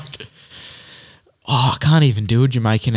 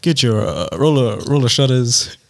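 halting presidential impression with filler pauses; lightly voiced American statesman, a bit lower; Barack Obama; 2 semitones lower than usual. Host selling roller shutters on request, halting presidential impression. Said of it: "sounding like Barack Obama".

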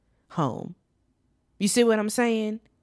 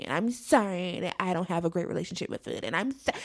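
mocking whiny apology; 3 semitones lower, 5 dB quieter, faster than usual. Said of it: "She's like".

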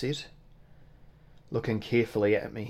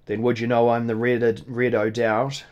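proud boast; 5 dB louder than usual. Acted. Innkeeper boasts his name.

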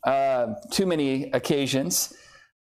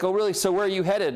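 higher-pitched, inquisitive officer; mock interest; 4 semitones higher, faster than usual. Officer asking a pulled-over driver about the trip, mock interest. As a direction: imitate an officer's intrigued questioning.

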